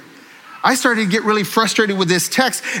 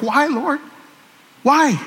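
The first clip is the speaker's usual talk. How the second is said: crying out to the Lord; 7 semitones higher, slower than usual. Retold or imitated. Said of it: "crying out for myself".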